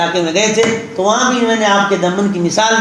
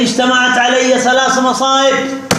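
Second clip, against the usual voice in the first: distressed lament; 5 semitones higher than usual. Retold or imitated. Preacher voices the burdened mother crying to God, in raised distress. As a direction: cry out to God as if overwhelmed. Woman laments her three troubles.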